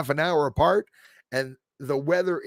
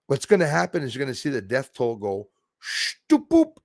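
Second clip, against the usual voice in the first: ordinary talk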